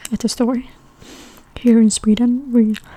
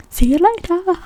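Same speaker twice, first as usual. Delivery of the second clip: high-pitched imitated goodbye; friendly farewell; 6 semitones higher than usual. Shop staff parting from a customer, imitated friendliness. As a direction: send them off with a lifted voice.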